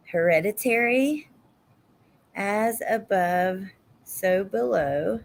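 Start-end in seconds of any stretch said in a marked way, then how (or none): 2.3-5.2 writing it down. Real, not acted. Writing a title down.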